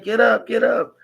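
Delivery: high, loud mock yell of a panicked sister; imitating sister yelling. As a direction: squeal it up high like the scared sister. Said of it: "She said".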